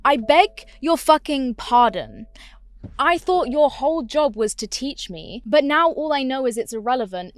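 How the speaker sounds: loud, indignant comeback; indignant retort. Retold or imitated. Student retorts to teacher's dismissive note, indignant. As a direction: raise your voice in offended disbelief.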